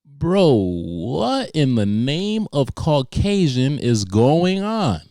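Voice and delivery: slow, high and loud; outraged disbelief. Real, not acted. Comic reacting to the doctor's story, loud and slow. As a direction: stretch it out in disbelief. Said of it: "comic's outraged reaction".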